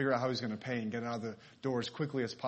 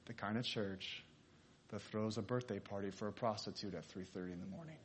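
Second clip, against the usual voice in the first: smiling reply; 2 semitones lower, 7 dB quieter than usual. Retold or imitated. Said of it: "the pastor smiled, he paused".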